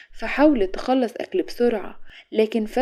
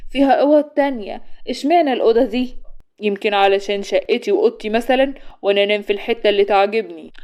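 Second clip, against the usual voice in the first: put-on indignant young woman; 2 semitones higher, 4 dB louder than usual. Shorouk protesting that Ghanem follows her into the room, indignant. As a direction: push back at him, outraged.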